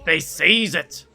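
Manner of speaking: lightly voiced pompous pirate captain; a hint of a proud pirate reporting in; Captain Hook voice.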